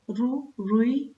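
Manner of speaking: रू, रुई drawn out slowly, each vowel long and clear; slow teaching demo. Shown as a demonstration. Teacher to class, pronounces रू, रुई slowly. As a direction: spell out रू and रुई very slowly for children. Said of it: "इस प्रकार रू".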